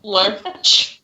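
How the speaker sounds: light southern drawl on Lurch; southern accent. Retold or imitated. Friend testing if Lurch sounds southern, light southern accent. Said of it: "Everybody sounds like they have a southern accent".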